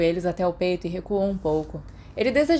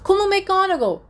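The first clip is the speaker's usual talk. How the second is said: guincho agudo e alto; guinchando; 13 semitones higher, 6 dB louder than usual. A narrator's reading. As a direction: solte um guincho empolgado. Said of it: "Peter guinchou". (Peter guinchando de animação)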